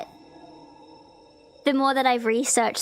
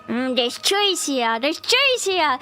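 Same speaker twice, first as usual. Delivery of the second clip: mock whiny excuse; 8 semitones higher, slower than usual. Imagined friend Jampi at a restaurant, blaming Giggles, whiny. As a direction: build from a mumble to a high whine. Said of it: "And you're like".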